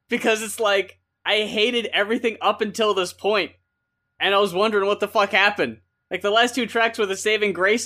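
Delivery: worked-up rant. Real, not acted. Reviewer ranting to co-host about the album, heated. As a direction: vent the frustration loudly. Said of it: "I was mad".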